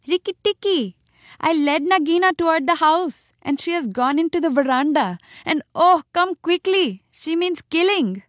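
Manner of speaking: high-pitched, urgent bird's cry for help; screaming alarm. A narrator's reading. Darzy's wife warning Rikki Tikki of danger, screaming in alarm. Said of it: "he heard Darzy's wife screaming".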